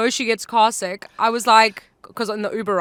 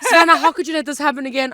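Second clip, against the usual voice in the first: mock scolding; 4 semitones higher, 4 dB louder, faster than usual. Mock scolding from testing staff.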